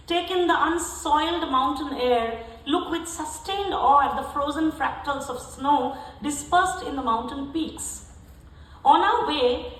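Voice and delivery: emphatic, carefully phrased literary reading; prose poem recital. Acted. Poet reading a Yosemite travel piece to an audience, emphatic recital. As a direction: read it out to the room with deliberate stresses, settling at each close.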